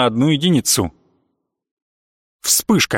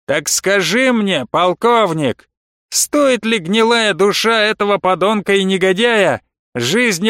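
lightly raised, orating leader's voice; smooth gang leader; 5 semitones higher than usual. Acted. Leader addressing the colonel, in a lightly voiced orator's tone. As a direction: sell peace like a politician. Leader's long persuasive speech.

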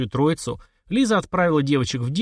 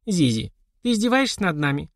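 mock indignation; 6 semitones higher than usual. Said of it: "деланно возмутилась Лиза".

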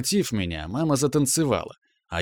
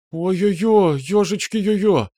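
much higher, louder flustered cries; 8 semitones higher, 4 dB louder, slower than usual. A narrator's reading. Mom hearing the flight is soon, flustered cry. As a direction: panic happily, fluster out loud. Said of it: "взволновалась Лидочка".

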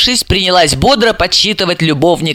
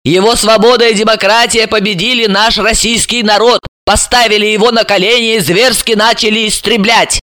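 denouncing; 4 semitones higher than usual. Acted. Lyuba denouncing the deputy.

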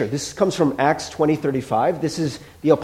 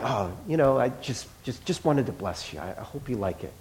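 softer and lower, modest mumble; bashful giver, softer; 5 semitones lower, 10 dB quieter than usual. Retold or imitated. Giver tells the grateful friend it's nothing, bashful and soft. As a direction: shrug it off shyly. Humble giver answers softly.

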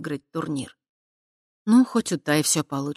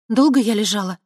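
quick question; 6 semitones higher, 8 dB louder than usual. Acted. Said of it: "быстро спросила она".

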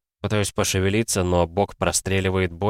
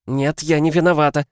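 high, loud protest of innocence; shouting denial; 8 semitones higher, 4 dB louder than usual. A narrator's reading. Mother backing away, shouting her denial. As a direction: cry out while backing away. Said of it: "кричит, пятясь назад".

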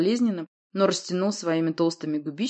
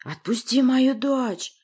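slow, raised growl; growled demand; 7 semitones higher, 4 dB louder, much slower than usual. A narrator's reading. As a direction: growl it out, dragging each word. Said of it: "прорычал Урий".

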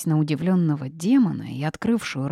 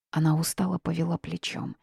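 plain reading voice

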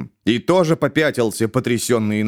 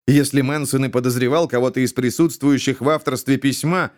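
ordinary delivery, nothing marked

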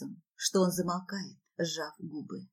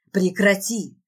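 loud, commanding growl; forceful acted growl; growled demand; 6 dB louder, slower than usual. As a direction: order it to stop with force. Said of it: "с рыком требует Марат".

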